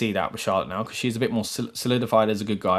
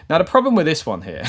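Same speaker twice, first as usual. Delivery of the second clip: breaking into a laugh mid-sentence, a bit louder; 3 semitones higher, 6 dB louder than usual. Real, not acted. Vlogger laughing at having to make the same point again. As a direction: laugh through it as the same topic comes up yet again.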